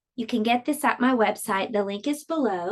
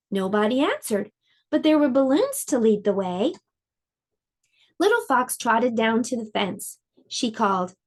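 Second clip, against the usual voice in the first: gentle storybook read-aloud; lively storybook narration for little listeners; reading to children. A narrator's reading. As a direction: tell it like a bedtime picture book. Reads picture book to children.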